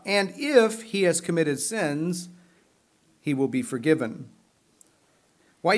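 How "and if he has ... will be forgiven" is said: slowed scripture reading, if lifted; stress on if. Real, not acted. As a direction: dwell on the word if. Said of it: "the emphasis is on the word if".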